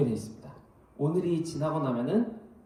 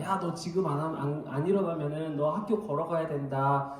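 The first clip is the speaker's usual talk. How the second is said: threatening; 2 semitones higher than usual. Retold or imitated. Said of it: "온갖 협박을 하면서 깨웁니다".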